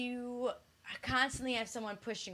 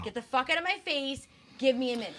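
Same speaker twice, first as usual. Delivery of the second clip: higher, louder mock exasperation; imitating someone who has had enough; fed up; 3 semitones higher, 6 dB louder, faster than usual. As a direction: act out reaching your limit. Acts out partner snapping when done.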